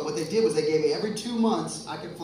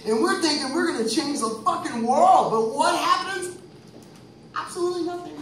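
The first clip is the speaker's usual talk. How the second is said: laughing; 12 semitones higher, 7 dB louder than usual. Real, not acted. Laughing at failed crusade.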